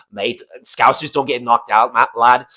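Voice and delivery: rough attempt at Scouse, pitched a little low; Paddy Pimblett accent. Host mimicking a fighter who won't get knocked out, attempted Scouse accent. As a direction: put on a shaky-footed Scouse impression. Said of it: "I can't do my Paddy Pimblett accent".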